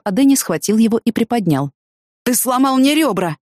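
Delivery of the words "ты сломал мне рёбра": higher-pitched, mildly laboured complaint; a touch of heavy breathing; breathing heavily. A narrator's reading. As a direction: protest as if winded. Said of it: "тяжело дыша сказал Анджело".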